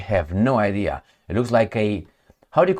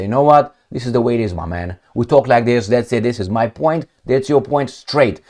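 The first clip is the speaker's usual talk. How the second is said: blunt straight talker. Retold or imitated. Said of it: "he can't be an up straight man and say".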